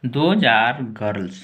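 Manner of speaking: put-on Those are girls said very slowly, word by word; slow model sentence; slow dictation. Shown as a demonstration. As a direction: read it slowly for learners. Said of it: "plural हो गया".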